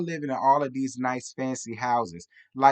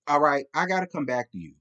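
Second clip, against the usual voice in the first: usual speaking voice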